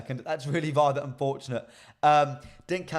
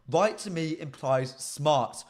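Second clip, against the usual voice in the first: "Right" drawn out, the whole line slow; stress on right; much slower than usual. Shown as a demonstration. Host unpacking the word for chat, very slow, "Right" held. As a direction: slowly say "Right to me implies smart", holding "Right". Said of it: "That's a huge word".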